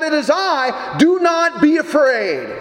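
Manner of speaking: called out across the water, slow on the last words; crying out. Acted. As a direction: shout it over the waves, firm not frantic. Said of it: "He just simply cried out".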